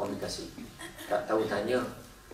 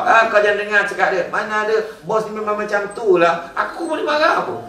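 gossiping colleague; 8 semitones higher, 6 dB louder than usual. Acted.

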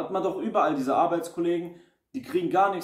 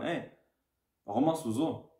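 soft, easygoing question; friendly curious tone; 2 semitones lower, 5 dB quieter than usual. Retold or imitated. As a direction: ask it kindly, just curious. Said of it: "Der Ton macht die Musik".

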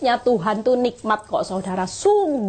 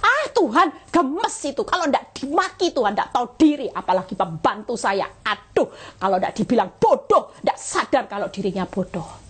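exasperated rant. Acted. Imitating a churchgoer ranting about her maid, exasperated. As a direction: act out a fed-up boss.

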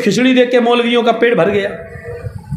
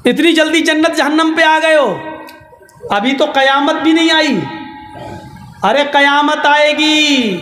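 mock preachy maulvi; 5 semitones higher than usual. Cunning maulvi lecturing the others.

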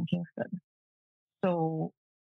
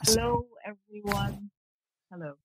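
cheerful greeting; 3 semitones higher than usual. Real, not acted. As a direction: greet everyone brightly and take your time. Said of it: "Say hello to everybody".

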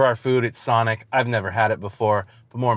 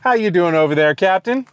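over walkie talkie; 3 semitones higher than usual. Pretend. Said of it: "Breaker Breaker one nine".

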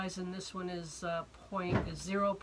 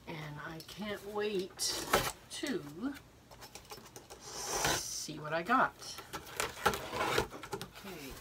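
hoarse, husky voice from a cold; slower than usual. Real, not acted. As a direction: talk through a head cold. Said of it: "I've got a bit of a cold today, so excuse my voice".

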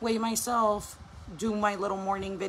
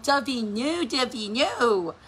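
mildly raised, stretched-out playful no; jokey scolding; 2 semitones higher, 3 dB louder, much slower than usual. Retold or imitated. Mom telling her toddler no, jokey mock scold. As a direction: draw out the second warning as a joke. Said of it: "I try to make it into a joke".

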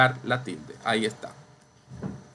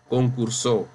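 concursó said concur-SÓ; stress on last syllable. Shown as a demonstration. Teacher repeating another word for contrast, concursó stressed on SÓ. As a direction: lean on SÓ in concursó. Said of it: "aquí no dice".

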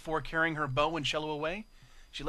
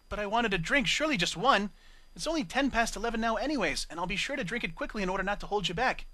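pleading; 5 semitones higher than usual. Acted. Octavia pleading for a drink.

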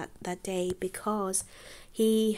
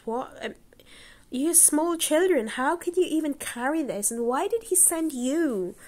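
high, louder, astonished questions; surprised; 7 semitones higher, 4 dB louder than usual. Acted. Wife asking the small boys, high and astonished. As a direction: marvel at little children with big loads. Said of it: "He said".

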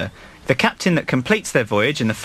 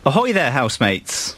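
frisky pirate greeting. Acted. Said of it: "He sounds frisky".

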